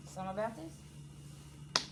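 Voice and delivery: soft, slow, questioning drawl; drawn-out musing. Real, not acted. Reader puzzling over the cards, soft and drawn out. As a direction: pull the words out slowly, wondering. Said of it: "reader muses over cards twice".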